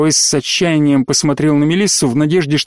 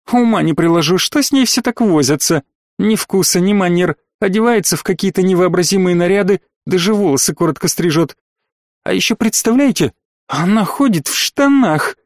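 scornful, disapproving gossip; 3 semitones higher than usual. Acted. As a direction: sniff at it with distaste. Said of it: "поджала губы и неодобрительно покачала головой".

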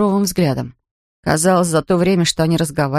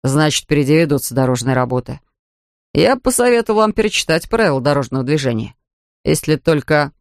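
a hint of a lower, sober officer voice; lightly voiced policeman; 4 semitones lower than usual. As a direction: read the policeman slightly lower and matter-of-fact. Policeman continues. (слегка пониженный голос полицейского)

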